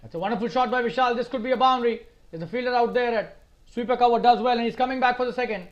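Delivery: brisk, lifted play-by-play call; lively cricket commentator calling a shot; excited commentary. Real, not acted. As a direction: follow the ball with rising excitement. Live call of a good shot.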